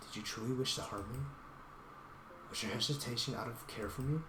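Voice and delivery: soft, hushed plea to a spirit; a hushed, heartfelt prayer to the leopard; earnest prayer. Acted. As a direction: pray quietly with all your heart. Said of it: "pray sincerely with all my heart".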